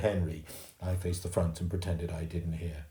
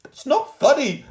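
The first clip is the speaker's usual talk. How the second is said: much higher, louder, slow insistence; insisting; 12 dB louder, slower than usual. A narrator's reading. Mum insisting to the attendant, loud and slow. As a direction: insist hard. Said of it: "my mother insisted".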